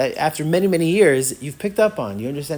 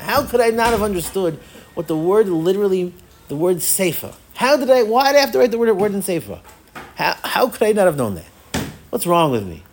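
raised, incredulous self-reproach; mock discouragement; 4 semitones higher than usual. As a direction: act out exasperation with yourself. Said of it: "get discouraged from the past".

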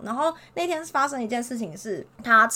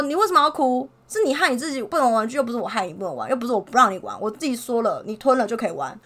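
louder, exasperated telling-off; loud scolding. Retold or imitated. Teacher scolds a crying child, louder and exasperated. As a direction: drive the blame home to the crying child. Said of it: "反正我就骂了一长串".

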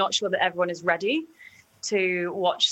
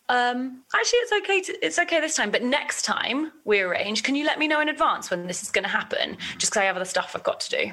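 higher-pitched, polite boundary-setting; gentle but clear; 5 semitones higher, faster than usual. Shown as a demonstration. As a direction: let them off kindly, then ask clearly. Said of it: "It's gentle, but it's clear".

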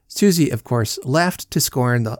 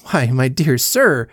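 slow, a touch louder, indignant; angry; 4 dB louder, slower than usual. Acted. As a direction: drag out the protest with mild anger. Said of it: "I said angrily".

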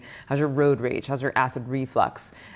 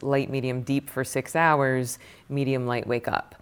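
one long cycle; slower than usual. Shown as a demonstration. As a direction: take the cycle slowly, as one long settled arc. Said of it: "Versus once you start meditating".

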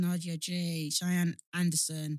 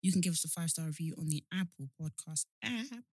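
even, softer podcast outro; low-key monotone handle read-out; monotone sign-off; 4 semitones lower, 6 dB quieter than usual. Real, not acted. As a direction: plug the socials in a low monotone. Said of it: "We sound really monotone".

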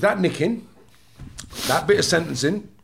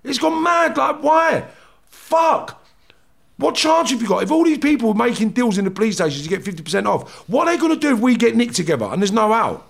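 incredulous inner rant; 4 semitones higher than usual. Retold or imitated. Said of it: "I'm looking at them thinking".

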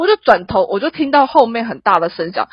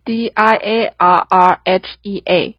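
slow, letter by letter; D I A R R H E A spelled slowly; spelling out; much slower than usual. Shown as a demonstration. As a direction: spell each letter of "D I A R R H E A" apart. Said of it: "稍微记一下".

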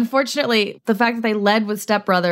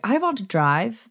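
put-on German accent. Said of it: "when they're like".

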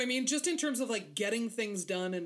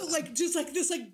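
dripping sarcasm; 7 semitones higher than usual. Retold or imitated. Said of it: "dripping with sarcasm".

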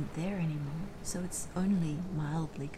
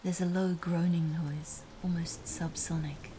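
hushed whispering storyteller; whispered narration. A narrator's reading. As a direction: whisper the story close to the mic.

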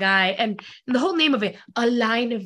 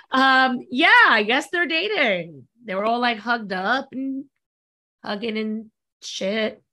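sneering fake sweet. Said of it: "Mean Girl style".

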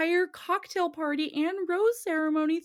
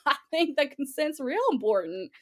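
mock Southern hillbilly; bad Southern accent. Mimicking contestant's answer on consent, bad Southern accent. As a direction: put on a clumsy Southern twang. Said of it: "I can't do a Southern accent".

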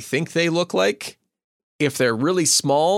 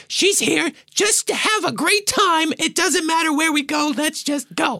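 Flamikins' voice. Acted. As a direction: play the eager little one who's up for anything. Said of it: "Flamikins is all caps, all exclamation points".

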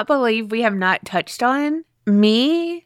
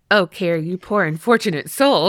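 lower, lightly mocking pity; 5 semitones lower than usual. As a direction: pity the poor fool in jest. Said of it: "she's gonna be like".

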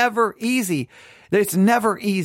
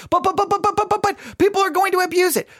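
high, stammering "but, but, but" of a worried objector; nervous objector; 11 semitones higher, faster than usual. Retold or imitated. Preacher mocks nervous people objecting that grace will be abused, high sputter.

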